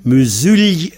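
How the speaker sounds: "Musulien" with the i as a y glide, mu-sul-yen; teacher repeats "Musulien" with a y sound; correct pronunciation. Shown as a demonstration. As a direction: say "Musulien" in three syllables, i gliding as y. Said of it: "C'est un y, en fait".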